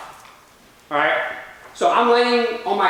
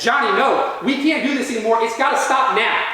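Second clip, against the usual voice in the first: higher-pitched, firm pleading; retold distraught holler; 3 semitones higher than usual. Mom in tears protesting to dad, mildly hollered. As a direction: imitate a mild holler of protest. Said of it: "She hollers at my dad".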